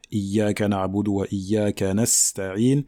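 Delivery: slow, careful chanted verse; Quran recitation. Shown as a demonstration. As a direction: recite slowly with held sounds. Recites previous verse as example.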